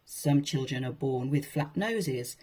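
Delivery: usual speaking voice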